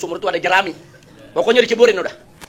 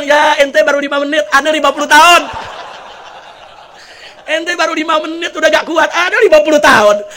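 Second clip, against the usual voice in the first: high, loud comic protest; indignant comeback; 7 semitones higher, 5 dB louder than usual. Acted. Long-suffering husband answers the complaining jinn, loudly indignant. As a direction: push it out as a mock-outraged retort.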